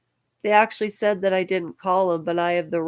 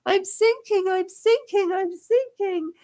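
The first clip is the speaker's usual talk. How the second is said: crying; 12 semitones higher than usual. Real, not acted. Emotional plea for help.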